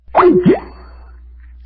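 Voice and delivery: loud laugh. Real, not acted. Laughing at the prank message.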